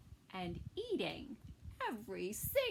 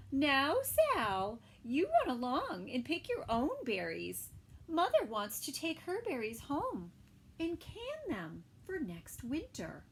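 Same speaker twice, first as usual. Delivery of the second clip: mother's voice; 3 semitones higher, 3 dB louder than usual. Acted. Mother scolds Sal in story.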